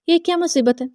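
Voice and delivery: high-pitched, exasperated complaint; irritated outburst. A narrator's reading. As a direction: protest in pouting irritation. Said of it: "شدید جھنجھلا کر بولی". (جھنجھلاہٹ بھری شکایت)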